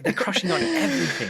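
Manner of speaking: gushing retold praise; excited admiration. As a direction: cheer friends on, impressed. Retells own admiration of their channel.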